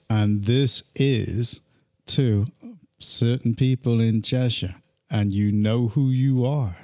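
low, slow mock warning; mock menace. Warning certain people in Cheshire, mock menace. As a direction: let the pauses hang, playfully ominous.

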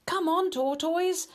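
high cheering shout. Acted. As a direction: cheer them on loudly. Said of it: "shouted the animals".

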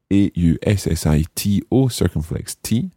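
spelling letters out for learners; dictating. Shown as a demonstration. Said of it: "Aussitôt".

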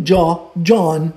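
John with a closed Portuguese O, like Jó; John pronounced with an O; Portuguese-style John. Shown as a demonstration. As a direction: say John the Brazilian way, with an O sound. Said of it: "muitas pessoas vão dizer John".

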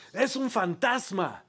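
agudo y lento, con miedo; asustados gritando. A narrator's reading. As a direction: grita asustado como quien ve un fantasma. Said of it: "gritaron llenos de miedo". (grito de miedo de los discípulos)

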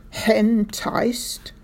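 Henticed with an added H sound at the start; dropped and added H. A narrator's reading. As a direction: say Henticed as hen-ticed, breathy H. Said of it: "Sergeant Samways had a funny habit".

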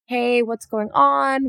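lightly voiced kind facilitator, drawn out; sweet and gentle. The facilitator gently asking the overwhelmed newcomer, slow and kind. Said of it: "Lion's so sweet".

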